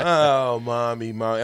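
put-on whiny crying child; mock sobbing for mommy; crying kid voice. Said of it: "boo-hoo and boo-boo".

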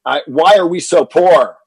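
mild mock yell of a frustrated child; boy yelling at his father about being poor. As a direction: replay a kid yelling in frustration. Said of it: "I must have yelled in frustration".

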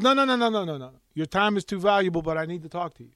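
lightly imitated New York accent, rattled-off refusals; a hint of an insistent New York fixer. Stranger insisting on talking to the reporter, light New York accent. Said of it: "you heard the voice".

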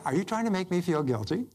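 demonstrating a mildly cheerful challenge; cheerful question. Shown as a demonstration. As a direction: ask it brightly, without accusation. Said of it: "just say it with a cheerful voice".

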